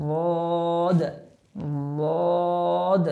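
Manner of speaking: লদ with the tongue's side edge on the upper molars; Arabic letter demo. Shown as a demonstration. Teacher showing students লদ. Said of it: "জিহ্বার গোড়াটা মাড়ির দাঁতের গোড়ার সাথে লাগবে".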